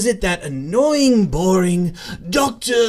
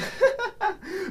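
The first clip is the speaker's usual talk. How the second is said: villain laugh; 9 semitones higher, 8 dB quieter than usual. Acted. Joker gloats after a cruel joke.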